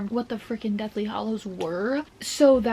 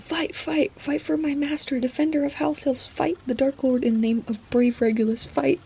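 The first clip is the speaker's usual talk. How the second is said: rallying elf cry; 4 semitones higher than usual. Retold or imitated. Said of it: "He storms out ... is like".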